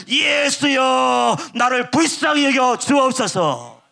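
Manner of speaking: slow, drawn-out pleading shout; crying out. Acted. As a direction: cry out to Jesus for mercy, stretched long. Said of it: "부르짖기 시작하잖아요". (느리게 길게 끄는 간절한 외침)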